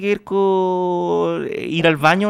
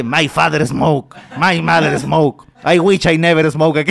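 slow, lightly imitated speaking-machine voice; slower than usual. Retelling a comic's smoking joke to friends, slow mock voice-machine delivery. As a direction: drag out each line like a voice-device user. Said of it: "usaba estas máquinas como de Don Miguel, así como".

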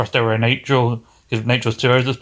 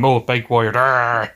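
battle cry; slower than usual. Retold or imitated. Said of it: "That's his whole thing".

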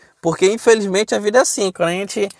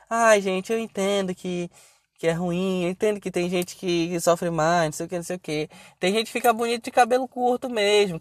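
mock apologetic blogger, mostly softened; self-justifying. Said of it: "ela ficou só se justificando". (imitação de quem se justifica, baixinho)

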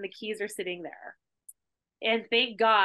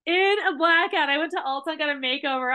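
higher, louder and quick; excited; 5 semitones higher, 3 dB louder than usual. Real, not acted. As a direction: tell it like the wildest part. Excited retelling punchline.

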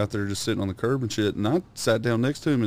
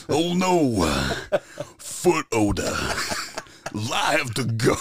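Cleveland Brown voice; 3 semitones higher, slower than usual. Acted. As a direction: do Cleveland from Family Guy. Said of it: "acting like you're Cleveland Brown".

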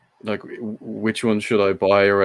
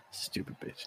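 mock whisper; 22 dB quieter than usual. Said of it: "so she's probably like".

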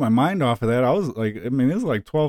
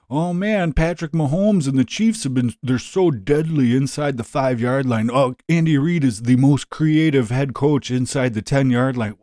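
mock sportscaster. Mocking the ESPN commentators.

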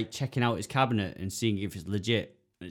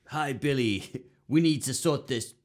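higher, slower awkward phone message; awkward voicemail; 4 semitones higher than usual. Retold or imitated. Steve Wiebe leaving a rival an awkward voicemail, higher and slower. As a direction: stiffly act out a cringeworthy trash-talk voicemail. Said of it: "he leaves these really cringeworthy messages going".

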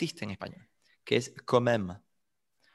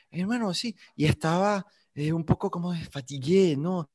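high, slow mock Frenchified Spanish; lightly mock a slow-witted colleague mixing French into Spanish; imitating a colleague's clumsy Spanish; 4 semitones higher than usual. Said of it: "tienen el C P U un poquito lento". (imitando a un colega con acento afrancesado, agudo y lento)

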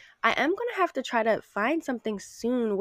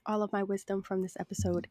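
1 soft whisper; 6 dB quieter than usual. Acted. Sending her wisdom to listeners, in a soft whisper. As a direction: whisper it softly.

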